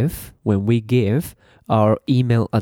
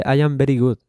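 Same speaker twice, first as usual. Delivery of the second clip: mock Spanish accent; 3 semitones higher, much faster than usual. Shown as a demonstration. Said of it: "that's Spanish".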